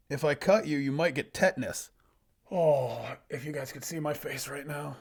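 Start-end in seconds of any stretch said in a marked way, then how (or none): 0.1-1.9 loud warning to a foe; fantasy fighter making a threat; cocky loner hero. Acted. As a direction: deliver the threat boldly. Voices the loner threatening bandit.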